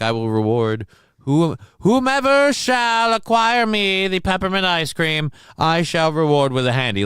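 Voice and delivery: hammed-up royal decree; mock quest proclamation. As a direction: proclaim it grandly, stretched out and high.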